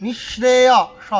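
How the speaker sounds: নিঃশ্রেয় with শ made at the middle of the palate; palatal শ. Shown as a demonstration. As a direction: put the tongue to the palate for শ in নিঃশ্রেয়. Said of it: "জিভটাকে মাঝখানে তালুতে ডেকে". (নিঃশ্রেয়-র শ তালুতে জিভ ঠেকিয়ে)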